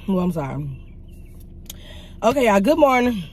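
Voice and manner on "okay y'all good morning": talking around a retainer; wearing a retainer. Real, not acted. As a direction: speak with a retainer in your mouth. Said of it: "If I'm talking funny, I have my retainers in my mouth".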